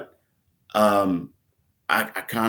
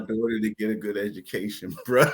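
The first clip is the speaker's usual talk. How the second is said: fast, laughing through the excuse; laughing protest; 5 dB louder, faster than usual. Retold or imitated. Answering the tough guy's taunt, laughing protest. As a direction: plead your case while cracking up. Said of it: "I'm like".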